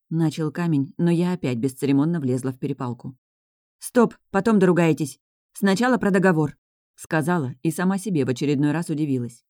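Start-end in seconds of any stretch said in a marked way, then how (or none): 3.8-6.6 higher, louder firm stop; firm interruption. Acted. Heroine cutting into the men's quarrel, firm and loud. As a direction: cut them off sharply.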